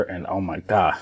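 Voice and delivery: ordinary delivery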